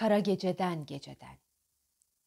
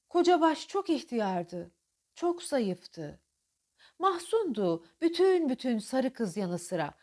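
mournful; 3 semitones higher, slower than usual. Shown as a demonstration. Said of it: "Mahzundu diyorum bakın".

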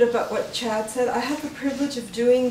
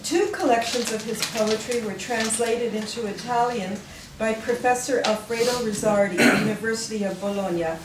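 measured read-aloud with falling sentence ends; formal tribute read from the page; formal biography reading. Real, not acted. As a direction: read a memorial biography to an audience, clearly phrased. Reads a written biography aloud.

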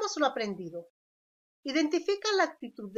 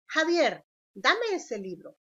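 request; 4 semitones higher than usual. Shown as a demonstration. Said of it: "Aquí hacemos una petición".

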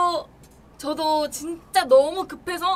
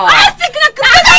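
shouting; 11 semitones higher, 14 dB louder, faster than usual. Pretend. Protesting being thrown out.

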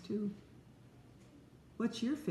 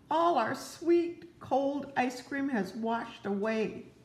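higher, slow dejected wail; slow mock lament; 6 semitones higher, slower than usual. Toad sadly tells Frog the ice cream washed away, slow. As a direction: mourn the lost ice cream.

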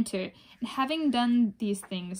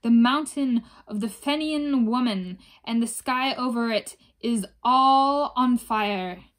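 crying aloud; 5 dB louder than usual. Acted. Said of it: "cry aloud three times and say".

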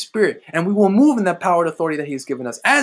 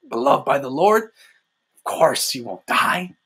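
low, slow, strange coaxing devil voice; Satan soothing; 5 semitones lower, slower than usual. Retold or imitated. Preacher voicing Satan reassuring the sinner, low slow coaxing voice. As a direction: drag the lie out low and sweet. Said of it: "He's like".

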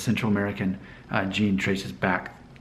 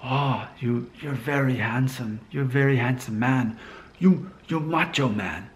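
light mock Korean accent in broken English; mimicking strangers in a Korean sauna, lightly Korean-accented; imitating Korean accent; 3 semitones higher than usual. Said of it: "that's how they sounded. That, that was their accent".

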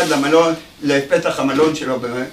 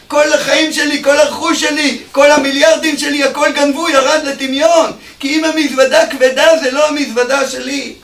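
higher and louder, wailing over everything lost; anguished lament; 9 semitones higher, 6 dB louder than usual. Acted. Robbed rich man wailing to the bellhop, loud anguished lament. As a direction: cry out the loss of his whole fortune.

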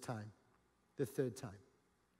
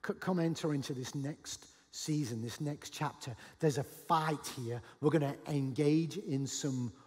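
gently lowered, unhurried invitation; gracious. Acted. Jesus inviting failed disciples onward, gracious and gentle. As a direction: coax them onward with short, patient phrases. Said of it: "he's still with grace".

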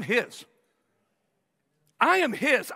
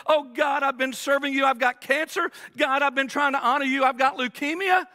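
mock whining; 3 semitones higher than usual. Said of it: "we whine and we moan".

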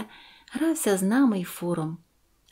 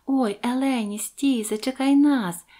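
loud high call; shouting after grandma; 5 semitones higher, 4 dB louder, slower than usual. A narrator's reading. Girl calling to her grandmother, shouting. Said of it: "закричала я".

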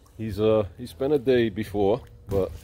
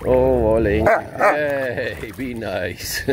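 teasing coo; 2 semitones higher, much slower than usual. Real, not acted. Teasing grumpy dog.

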